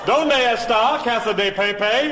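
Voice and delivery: "Donde está Casa de Pepe?" sounded out slowly, syllable by syllable, high; every vowel pronounced, hammed-up tourist Spanish; exaggerated Spanish. Shown as a demonstration. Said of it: "every vowel is a syllable".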